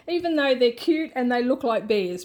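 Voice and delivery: laughing. Real, not acted. Laughing about koalas.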